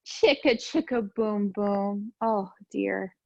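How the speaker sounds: lively storybook read-aloud; sing-song picture book reading; reading to children. Acted. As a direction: read it bouncy for little kids. Reads picture book to class.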